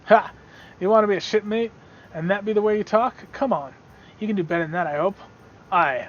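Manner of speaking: lightly voiced pirate, scoffing then quizzing; a touch of buccaneer swagger on punched words; pirate challenger. Pirate quizzes a would-be shipmate, lightly voiced buccaneer.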